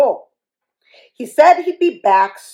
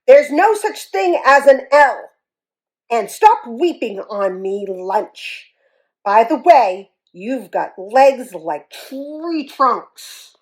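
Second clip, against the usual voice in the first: bully scolding; 4 dB louder than usual. Acted. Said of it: "Rudy stomped his foot".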